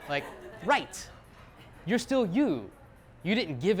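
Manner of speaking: shouted no with the pitch jumping up; a big emphatic no from the whole room; loud group no. Retold or imitated. Audience answering the speaker's question with a shouted no. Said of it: "And everybody goes".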